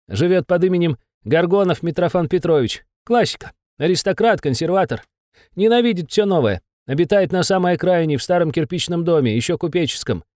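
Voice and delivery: high, anxious little demon; a cowed imp giving in; nervous demon voice. Acted. Besov describes suspect.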